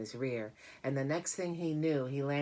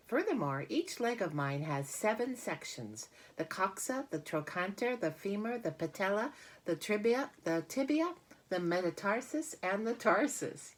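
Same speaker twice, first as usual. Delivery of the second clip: higher, lively voice for the clever spider; spider Charlotte voice; 7 semitones higher than usual. Acted. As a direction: proudly rattle off the list as Charlotte. Charlotte lists her leg parts.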